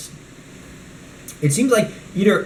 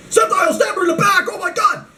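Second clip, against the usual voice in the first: much higher yelled command; mock battle shout. Kid playing with figures shouting a playful attack command. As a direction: bark the order at your toy fighter.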